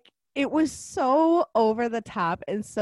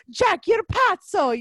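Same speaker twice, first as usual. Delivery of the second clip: higher, louder, slow hammed-up Italian accent, "pazzo" leaned on in Italian; mock Italian accent; 9 semitones higher, 5 dB louder, slower than usual. Mocking Fabrizio's Italian word in a slow mock accent. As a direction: slowly ham up "pazzo" like a cartoon Italian. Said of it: "make one of the words, like, an Italian word".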